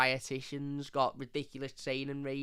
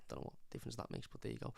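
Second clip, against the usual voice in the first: muttered aside; 2 semitones lower, 14 dB quieter, faster than usual. Real, not acted. Muttered aside after accent request.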